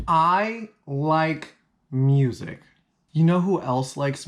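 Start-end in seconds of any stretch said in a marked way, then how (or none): 0.1-2.6 slow dull mockery. Mocking the phrase, drawn out.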